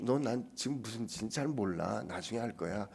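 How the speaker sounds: soft and reassuring, as Jesus speaking; gentle. Retold or imitated. Jesus gently reassuring Peter at first, softly. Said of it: "처음엔 좀, 좀 부드럽게 말씀하시".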